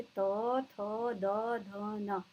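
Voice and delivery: त, थ, द, ध, न modelled one by one against the teeth; dental consonants demo. Shown as a demonstration. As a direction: say त, थ, द, ध, न separately for learners to copy. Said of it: "आप बोल के देखिए".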